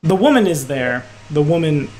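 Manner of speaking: ordinary talk, nothing marked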